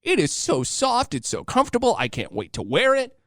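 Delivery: put-on very high squealing girlfriend voice; imitating excited wife. Husband mimics wife gushing over hoodie, high squeal. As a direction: squeal it way up like his thrilled wife. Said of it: "She was like".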